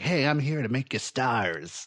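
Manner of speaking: slow, hammed-up bad Texas accent; botched Texas accent. Producer promising stardom to the creators, in a botched Texas accent. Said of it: "like he's from Texas".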